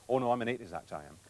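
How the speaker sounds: imitated Welsh accent, lightly done; light Welsh impression of a singer. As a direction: quote him in a mild Welsh lilt. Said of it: "that was a Welsh accent".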